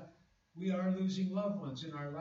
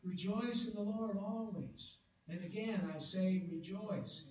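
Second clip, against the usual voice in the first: voicing Paul; 3 semitones higher than usual. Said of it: "Yet he was able to say".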